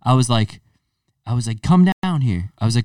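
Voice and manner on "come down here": higher-pitched retold telling-off; mock freaking out. Storyteller re-enacting yelling at kids on a porch, mock outrage. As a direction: replay yourself ordering the culprits about, worked up but not shouting. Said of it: "freaking out on him".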